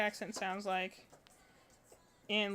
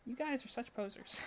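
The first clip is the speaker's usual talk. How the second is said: laughing; 8 dB quieter than usual. Retold or imitated. Mocking northerners who fake Southern.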